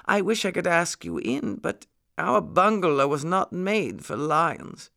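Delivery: high-pitched lady muskrat voice; muskrat lady, polite. A narrator's reading. Muskrat lady answering the apologetic lion, polite.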